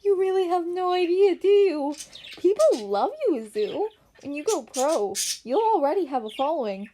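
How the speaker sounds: laughing hard. A narrator's reading. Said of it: "bursting out his gut, laughing so hard".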